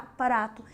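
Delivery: prato said as pa-ra-to; sounding out. Shown as a demonstration. Teacher breaks prato into its sounds. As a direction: sound out each consonant in prato. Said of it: "som de P, P e som de R".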